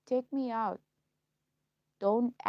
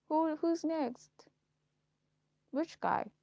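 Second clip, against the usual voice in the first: giddy; 8 semitones higher, 3 dB louder, slower than usual. Pretend. Giddy mock question.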